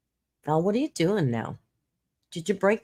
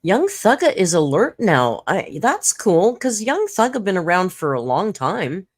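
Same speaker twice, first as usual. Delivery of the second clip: loud excited welcome; 4 semitones higher, 5 dB louder than usual. Real, not acted. Greeting a viewer excitedly.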